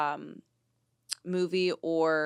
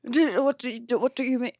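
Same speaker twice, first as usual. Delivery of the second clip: Paul Mescal's Irish lilt; lightly put-on Irish accent; 5 semitones higher, 4 dB louder than usual. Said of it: "I can do an Irish accent".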